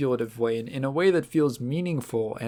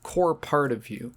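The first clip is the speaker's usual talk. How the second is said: slow whisper, holding tears back; barely keeping it together; real choked hush; teary whisper. Real, not acted. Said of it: "I'm trying not to cry".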